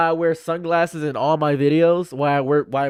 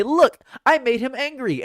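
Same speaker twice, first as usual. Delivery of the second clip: mocking troll; 8 semitones higher than usual. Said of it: "they can say".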